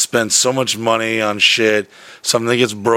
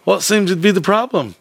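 high-pitched mock Canadian accent; 8 semitones higher than usual. Truck driver asking about the breakdown, imitated Canadian accent. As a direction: play the helpful Canadian stranger. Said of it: "with this Canadian sounding accent".

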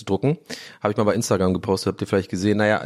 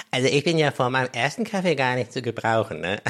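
mocking imitation. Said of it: "Kennt ihr so Leute, die so, solche Sachen sagen".

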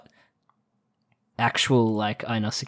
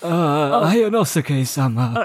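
put-on very old man; 3 semitones higher, slower than usual. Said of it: "a young guy doing an old man voice".

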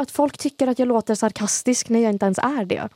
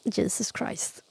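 unvoiced, slow exasperated whisper; 9 dB quieter, much slower than usual. Real, not acted. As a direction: breathe it out slowly in exasperation. Exasperated aside.

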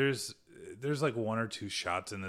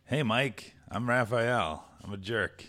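lightly put-on tough turtle voice; slightly raised, louder cartoon delivery; Raphael impression; 3 semitones higher, 6 dB louder, slower than usual. Co-host asks for the next Ninja Turtle, light character voice. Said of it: "And Raphael?".

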